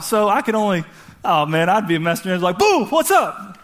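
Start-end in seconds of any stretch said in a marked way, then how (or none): 2.6-3.6 high, drawn-out jokey boo; mock scare with a laugh; playful startling boo. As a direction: pop out to spook them, laughing. Playing angel startling people for fun.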